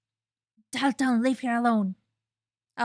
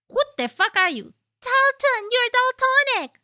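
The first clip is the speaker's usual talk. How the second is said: much higher, louder startled outburst; shocked yell; 11 semitones higher, 7 dB louder than usual. Real, not acted. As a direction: blurt it out in disbelief. Shocked reaction to game character.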